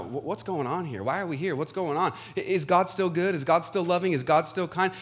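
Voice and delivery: softly voiced, questioning grandkid; bewildered grandkid waking. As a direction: ask quietly, as if just waking up confused. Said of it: "imagine being one of Hezekiah's grandkids waking up".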